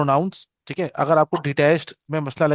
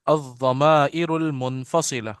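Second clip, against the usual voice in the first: slow, clear model line for the class; slow model reading; slower than usual. Shown as a demonstration. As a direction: say it slowly so they can echo. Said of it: "पढ़िए मेरे साथ".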